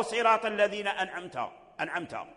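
أنعمت with a faulty nun; wrong reading. Shown as a demonstration. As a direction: demo the mistake in أنعمت. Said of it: "هذا لحن".

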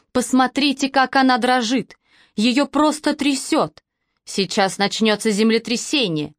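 mocking. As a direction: jeer at the shaking girl. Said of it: "с издёвкой продолжала". (с издёвкой)

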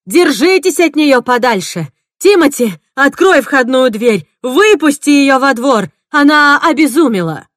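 loud, high urgent shouts; loud, high orders to Timothy; shouting orders. Acted. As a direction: bark commands in danger. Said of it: "крикнула я остальным".

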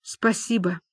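soft, moved thanks; touched. Acted. Люба thanks her friends, touched. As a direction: say it softly, gratefully. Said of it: "растроганно сказала Люба".

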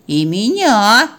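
slow, drawn-out plea; whining dog. Acted. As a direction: draw it out like a sulky dog. Puppy demands to be fed. (протяжно, обиженно)

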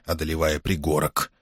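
usual speaking voice

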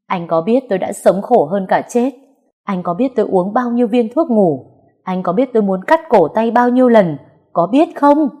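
building to a loud, high cry; anguished accusation. Acted. Heroine confronting her ex about her suffering, rising anguished shout. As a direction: hurl each question harder at him.

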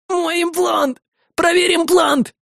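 high, very slow agonized shout; pain scream. Acted. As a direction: howl out the pain. Soldier demands implant check.

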